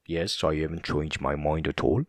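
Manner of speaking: imitating a Scot's accent; mock Scottish, slushy S. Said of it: "It's just so funny how he says that".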